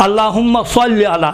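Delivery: slow اللہم صل علی with thick "swalli"; emphatic saad in careful recitation of صل; heavy saad. Shown as a demonstration. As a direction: round the s in صل. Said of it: "صلی نہیں ہے، صلی".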